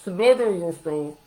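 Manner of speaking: slow, pointed Smother yourself; mock scolding tone; pointed contrast. Shown as a demonstration. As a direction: stress the absurd word Smother. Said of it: "I didn't say".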